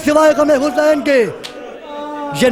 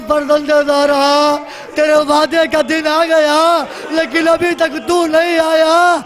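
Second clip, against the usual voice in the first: pleading prayer. Acted. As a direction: call out longingly to an awaited holy guest. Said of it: "یہ دعا مانگی رہی تھی". (تڑپتی ہوئی دعا)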